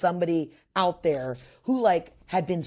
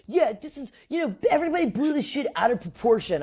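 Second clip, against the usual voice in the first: dismissive guy voice; 7 semitones higher than usual. Retold or imitated. Mocking the guy's defense.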